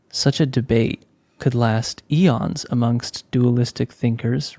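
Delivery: measured, deliberate reading of a philosophical page; reading aloud from a book. Acted. Author reading a book page to listeners, measured recital. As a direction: read it out evenly, pausing between clauses.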